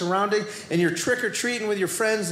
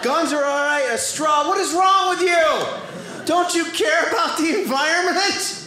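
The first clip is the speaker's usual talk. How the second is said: mock outrage; 5 semitones higher than usual. Scolding someone who asked for a straw, mock outrage shout. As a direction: play a shocked scold, half shouting.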